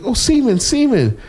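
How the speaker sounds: put-on high singsong child voice; dad imitating his daughter in the car; imitating little girl. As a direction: mimic a six-year-old innocently repeating. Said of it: "She's like".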